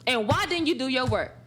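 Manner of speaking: a mock-strict teacher checking homework; half-acted stern teacher. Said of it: "I gotta be stern, firm".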